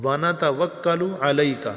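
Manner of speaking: علیک with a clear throaty ain, slow; slow model recitation; ain pronounced. Shown as a demonstration. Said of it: "تھوڑی سی عین نکالنی چاہیے".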